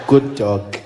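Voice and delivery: low, loud put-on president voice; Jacob Zuma. President praising his puppy, low put-on voice. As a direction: praise the pet in a deep voice. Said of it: "It was almost like Jacob Zuma".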